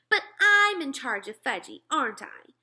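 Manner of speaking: put-on high, loud girl's objection; insistent protest. A narrator's reading. Sheila claiming charge of Fudge, insistent high protest. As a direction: insist on your rights, starting loud.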